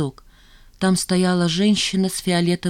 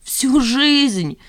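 laughing; 8 semitones higher, 4 dB louder than usual. A narrator's reading. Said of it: "засмеялся Сидоров".

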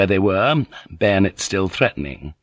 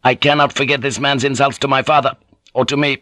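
higher, unyielding character voice; insulted young lord Naga; 5 semitones higher, faster than usual. Acted. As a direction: hold firm over an insult.

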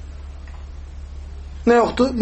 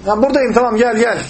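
raised-pitch reply to a caller; imitated calling back; 4 semitones higher than usual. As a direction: call someone over, mildly acted. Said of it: "Bağırıyor Aleyhisselam".

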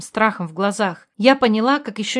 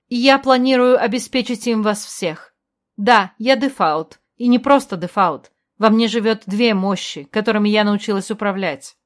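formal speech; 3 dB louder than usual. A narrator's reading. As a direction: address the crowd like a new queen. Queen's speech to the crowd.

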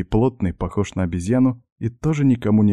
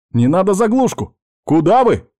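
much higher and louder, pleading; desperate shout; 11 semitones higher, 6 dB louder than usual. Acted. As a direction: cry out not to be shut off. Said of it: "отчаянно закричал я".

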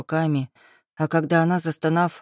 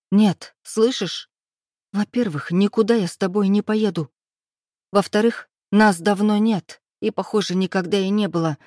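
raised, higher angry voice; heated rebuttal; 3 semitones higher than usual. Acted. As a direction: slam each point at him. (героиня гневно перечисляет: повышенный голос)

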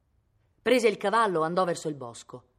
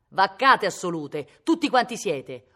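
much louder, slowed yell; slow furious shout; 3 semitones higher, 10 dB louder, slower than usual. Acted. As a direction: bellow it in disgust, dragging each word. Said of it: "urlava Cosimo".

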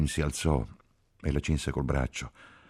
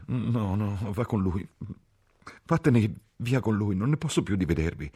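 high, rising, tearful insistence; distraught dismissal; 7 semitones higher than usual. A narrator's reading. Ferguson cannot bear seeing the couple, distraught dismissal. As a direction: send them off, at the end of your tether. Ferguson sends the lovers away.

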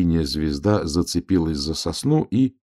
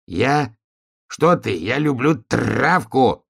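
high, drawn-out protest, rolled r; protesting donkey-turned-wolf; 6 semitones higher, much slower than usual. A narrator's reading. Donkey denying he is a wolf, high protest. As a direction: insist on innocence, pitched up.

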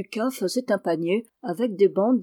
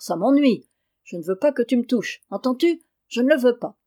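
irritated; 4 semitones higher, 4 dB louder than usual. Acted. Boy protests at friend's teasing.

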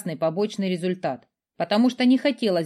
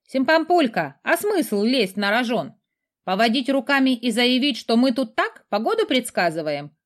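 a light, higher cheeky skull voice; cheeky skull familiar; 5 semitones higher than usual. Acted. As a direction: play a sassy talking skull.

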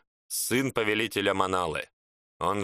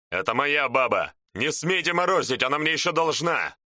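higher indignant shouting; 3 semitones higher than usual. Acted. Shaman claims the woman, shouting.

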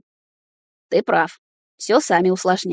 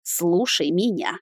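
growled; 4 dB quieter, slower than usual. A narrator's reading. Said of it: "прорычал я".

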